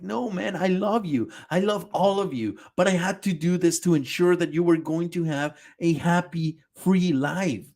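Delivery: mock crying Eren. Retelling Eren's tearful talk with Armin. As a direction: plead through fake tears. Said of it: "crying to Armin".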